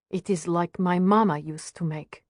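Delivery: put-on lightly Russian-accented mother; careful English with a touch of Russian accent. Mother tastes strudel like her mama's, lightly Russian-accented. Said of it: "Is that a Russian accent".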